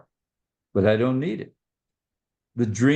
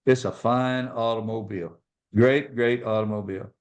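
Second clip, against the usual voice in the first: understated, calm retold reply; 2 semitones lower than usual. Dad politely answering an excited car salesman, calm. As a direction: answer evenly as the unruffled dad. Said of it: "my dad very calmly said".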